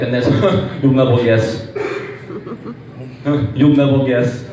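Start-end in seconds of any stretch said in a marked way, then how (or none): 0.8-1.7 speech impediment imitation. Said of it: "best sayings". 3.5-4.4 speech impediment imitation. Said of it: "best sayings".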